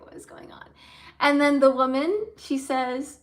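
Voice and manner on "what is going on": whispered, puzzled aside. Retold or imitated. Narrator voices the hostess's puzzled look in a whisper. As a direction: breathe it like a confused hostess. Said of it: "She gave me a look, like".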